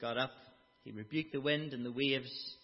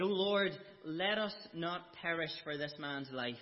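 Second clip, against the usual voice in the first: louder pleading prayer; crying out; 4 semitones higher, 3 dB louder than usual. Retold or imitated. Desperate sailors crying to the Lord, pleading. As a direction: cry out to God for mercy.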